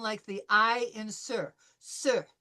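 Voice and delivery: sir with an open French vowel, no R. Shown as a demonstration. Teacher models sir for the class in French. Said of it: "this combination of O E is going to sound".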